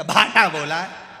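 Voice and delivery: patient snapping back in anger; angry retort. Acted. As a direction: spit the word out.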